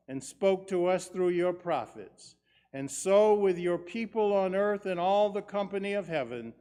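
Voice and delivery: solemn measured prayer voice; liturgical prayer. Acted. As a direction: pray it steadily, with reverence. Great thanksgiving prayer.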